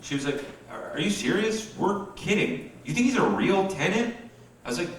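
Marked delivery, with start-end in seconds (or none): 0.7-4.1 mom, higher, in disbelief; can't believe he thought so; high incredulous mom voice. Retold or imitated.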